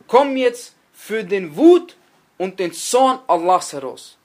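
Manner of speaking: slow, emphatic loud command; stern summons. Acted. Angel of death at the dying one's head, stern summons. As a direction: order the soul out, drawing out the key words.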